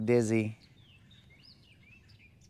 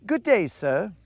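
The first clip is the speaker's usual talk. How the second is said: high, louder prim farewell; polite fish; 7 semitones higher, 4 dB louder than usual. Retold or imitated. Fish bids the angler a high mock-polite farewell. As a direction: tip the hat with the voice. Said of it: "was all like".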